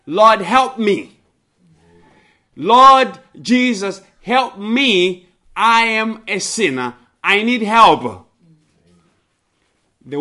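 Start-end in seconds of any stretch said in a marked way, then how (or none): 0.1-8.3 higher, louder desperate plea; begging. Acted. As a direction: beg the Lord for help, pitched up and pressing. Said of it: "they beg him".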